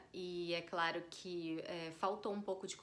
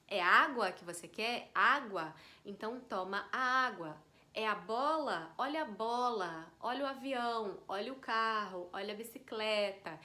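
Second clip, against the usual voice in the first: put-on demonstrating talk to toddler; 4 dB louder than usual. Shown as a demonstration. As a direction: clear labelling of objects for a small child. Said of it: "você tem que falar assim". (falando didaticamente com criança pequena)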